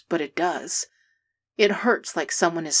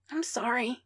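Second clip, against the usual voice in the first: miserable; 5 semitones higher, 6 dB quieter than usual. A narrator's reading. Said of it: "he says again".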